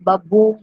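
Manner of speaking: बबूम with the second syllable stressed; iambic sound demo. Shown as a demonstration. Teacher shows students the sound of a syllable pair, iambic stress. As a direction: say बबूम as weak first beat, strong second. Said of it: "I've shown you the sound".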